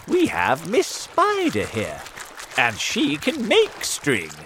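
put-on old grasshopper. A narrator's reading. Grasshopper reminding James of Miss Spider, as old character.

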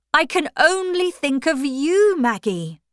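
desperate lover. A narrator's reading. Stephen's desperate declaration.

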